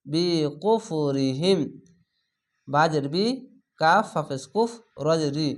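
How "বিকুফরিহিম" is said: very slow drawn-out Quranic chant; tajweed recitation demo. Shown as a demonstration. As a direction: stretch every syllable of the word. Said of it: "স্লোভাবে একটু পড়ছি কেন".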